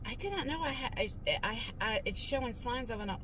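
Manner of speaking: halting, stumbling start; stuttering. Real, not acted. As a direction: trip over the first words. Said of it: "I, I'm stuttering".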